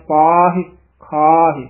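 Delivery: ਪਾਹੇ ਖਾਹੇ slowly, ending in a light short i; short final i. Shown as a demonstration. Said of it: "ਸਿਹਾਰੀ ਬੋਲਣੀ ਹੈ".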